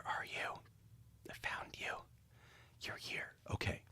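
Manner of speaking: muttered whisper to herself. Real, not acted. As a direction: whisper while searching. Whispering while searching.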